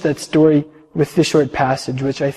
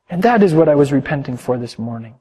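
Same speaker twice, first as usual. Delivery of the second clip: storyteller reading to the congregation; calm sermon storytelling; story narration. A narrator's reading. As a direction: tell it gently, like reading a tale aloud. Reads a long story aloud.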